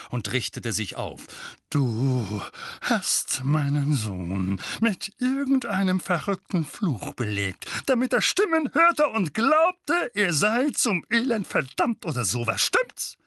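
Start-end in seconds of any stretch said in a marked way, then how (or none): 1.7-13.2 loud, high, furious accusing; loud accusation. A narrator's reading. Uncle Vernon accuses Harry of cursing his son, shouting. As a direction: hurl the accusation. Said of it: "Stimme zu voller und beträchtlicher Lautstärke".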